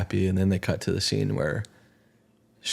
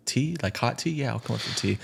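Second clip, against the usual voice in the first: higher-voiced, restrained answer; polite out-loud reply; 4 semitones higher, 4 dB quieter than usual. Answering the invite to come up for tea, mildly polite. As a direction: politely accept the invitation, lightly acted. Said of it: "And then goes to the narration".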